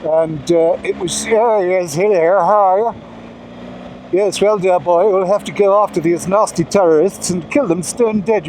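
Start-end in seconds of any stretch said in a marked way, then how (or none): 1.3-8.5 hint of a plummy stage actor; mock posh actor voice. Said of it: "that's not how you talk".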